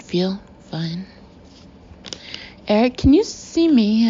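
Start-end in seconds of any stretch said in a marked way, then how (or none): 2.7-4.1 high, tight and strangled; high-pitched strangled voice. A narrator's reading. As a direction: squeeze it out high and panicky. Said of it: "in a high-pitched, strangled voice".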